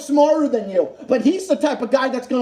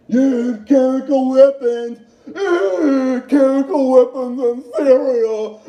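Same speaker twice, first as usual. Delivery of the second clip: mock whiny voice; 3 dB louder, slower than usual. Mocking opponents' talking point.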